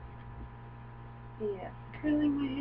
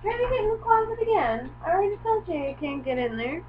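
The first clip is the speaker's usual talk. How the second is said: high, fast, raised scolding; scolding the dog; 9 semitones higher, 5 dB louder, faster than usual. Real, not acted. Owner scolds dog for the closet, high and fast. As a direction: tell the dog off, quick and high.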